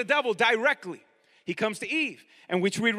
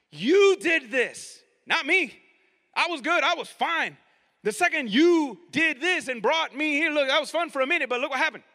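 higher, indignant self-defence; accusing God; 4 semitones higher, 4 dB louder than usual. Acted. Adam blaming God to his face, indignantly accusing. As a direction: protest your innocence and throw the blame back. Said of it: "Adam was blaming God".

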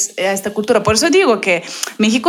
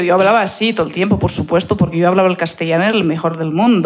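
mock Castilian Spanish accent; 3 semitones lower, faster than usual. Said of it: "Sale perfecto".

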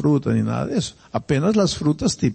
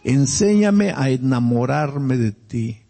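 tender prayer; slower than usual. Pretend. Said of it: "tú tienes que decirle".

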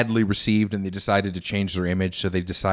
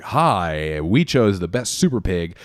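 lightly put-on animal show host; hint of a washed-up TV presenter; imitated TV host voice; slower than usual. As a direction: do his speaking voice, swooping in pitch. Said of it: "he has a speaking voice that's like".

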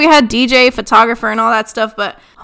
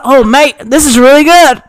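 imitated Australian cousin, delighted; playful Australian impression, a bit louder; Australian accent; 4 dB louder than usual. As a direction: put on a light Aussie accent. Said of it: "This accent, mate".

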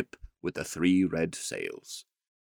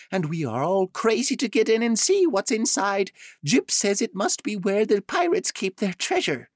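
much higher, eager chattering voice; excited duck Dab Dab; 13 semitones higher, 4 dB louder than usual. Acted. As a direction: gush about the ship like a thrilled bird. Dab Dab bursts in with news.

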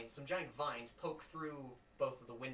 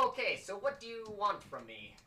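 a higher-pitched touch of exasperated wizard; lightly voiced wizard; 7 semitones higher, 4 dB louder than usual. Wizard asks a visiting player what they want, lightly voiced. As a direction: lightly act a put-upon wizard, pitched up. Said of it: "He goes".

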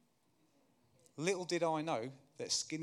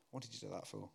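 softer, lower gentle rhetorical question; quiet echo; 3 semitones lower, 6 dB quieter, faster than usual. Acted. Preacher echoing the teacher's question gently to the congregation. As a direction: let it land softly for the listener.

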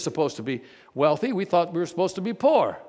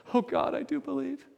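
cried out; 9 semitones higher, 4 dB quieter than usual. Retold or imitated. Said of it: "she immediately cried out".

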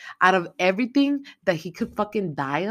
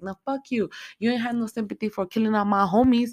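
higher, louder angry snap back; angry retort; 5 semitones higher, 4 dB louder than usual. Retold or imitated. Maxine refusing the grandma, angry higher retort. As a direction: throw it back in her face, heated.

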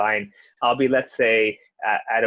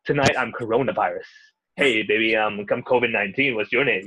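sleazy guy at a bar; 3 semitones lower than usual. Retold or imitated. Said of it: "sounds like a sleazy guy at a bar".

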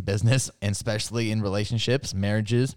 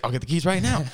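eager wife; 6 semitones higher, 3 dB louder, faster than usual. Retold or imitated.

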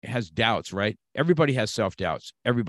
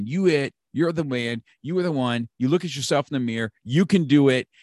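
upbeat, louder hype-man inner voice; boss voice; 4 semitones higher, 4 dB louder than usual. Retold or imitated. Inner boss voice hyping himself up in the mirror. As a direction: pump yourself up like your inner boss. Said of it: "our boss voice is like".

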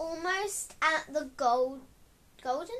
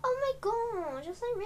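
shocked; 6 semitones higher than usual. Real, not acted. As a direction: marvel at a friend's riches, higher pitched. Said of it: "you're shocked".

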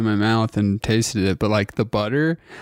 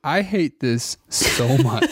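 slow, laughing through it; slower than usual. Real, not acted. Disgusted by food, laughing.

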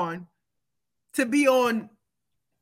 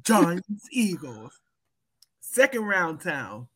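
game announcer; 4 semitones lower, much slower than usual. Retold or imitated. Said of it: "sound like a game announcer".

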